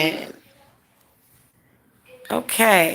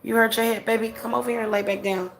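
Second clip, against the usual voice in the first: soft, quick coaxing to a hurt little one; real tender mother, softer and quick; 3 semitones higher, 4 dB quieter, faster than usual. Real, not acted. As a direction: hush him back onto the couch, tenderly. Mother soothing hurt child.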